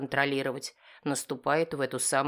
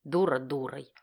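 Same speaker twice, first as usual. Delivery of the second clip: ordinary delivery, nothing marked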